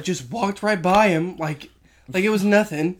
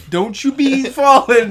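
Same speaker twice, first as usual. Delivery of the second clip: higher, louder jovial mock warning; friendly guy imitation; 6 semitones higher, 8 dB louder than usual. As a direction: play the friendly stranger calling out. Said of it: "this friendly guy that was like".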